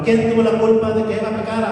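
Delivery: preacher's rallying question; call-and-response question. Shown as a demonstration. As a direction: fire the question out to the crowd. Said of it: "díganlo fuerte".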